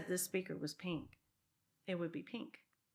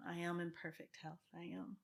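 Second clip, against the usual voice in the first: affirmation demo. Shown as a demonstration. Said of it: "so I bring health".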